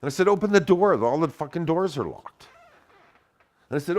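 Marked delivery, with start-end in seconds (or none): 0.3-2.5 higher, louder angry yell; yelling to open. Retold or imitated. Banging on the car window, yelling at friends inside. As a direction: shout through the window, furious.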